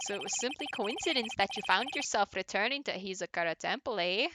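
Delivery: lightly put-on Canadian accent; Canadian accent judge. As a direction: judge with a touch of Canadian, ending on "eh". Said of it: "why I'm doing that accent for him".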